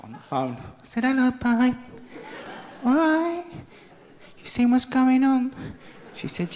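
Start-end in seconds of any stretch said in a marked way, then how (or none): 1.0-5.5 husband calls wife at work, fake-breezy cheer; fake-casual cheer. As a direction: sound innocently bright to win her back.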